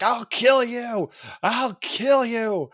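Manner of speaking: high, drawn-out villain threat; hammed-up vengeful cry, stretched slow; Rita. Podcaster imitating a pinned villain threatening to kill, hammed-up fury.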